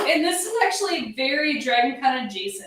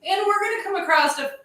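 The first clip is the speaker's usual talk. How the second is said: hiccups; 8 semitones higher, faster than usual. Real, not acted. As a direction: voice jumps with a hiccup. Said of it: "I have the hiccups".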